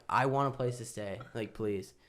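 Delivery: exhausted plea. Retold or imitated. Exhausted traveller pleading.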